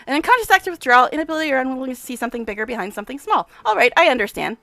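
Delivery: lightly played brisk, self-important scientist; a touch of the mad professor, pleased; eccentric scientist. Nenio concludes experiment.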